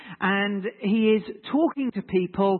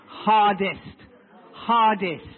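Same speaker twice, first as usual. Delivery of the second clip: "Hardest" drawn out in a southern accent, a bit louder; 4 dB louder, much slower than usual. Shown as a demonstration. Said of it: "that's my, uh, southern accent coming in".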